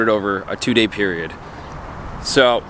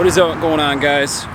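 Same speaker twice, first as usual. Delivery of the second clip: out of breath; slower than usual. Real, not acted. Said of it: "I gotta catch my breath".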